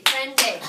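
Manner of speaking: "prende" in two clear beats, PREN-de; clapped-out syllables. Shown as a demonstration. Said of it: "clap it out, repite".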